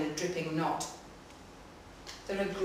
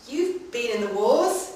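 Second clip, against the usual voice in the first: a slow, grandmotherly "You've been in the wars", rising on "wars"; startled into an old gran's cluck; sounding like gran; 5 semitones higher, 5 dB louder, slower than usual. Acted. Narrator to the injured woman, a touch of gran. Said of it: "startled into sounding like my gran".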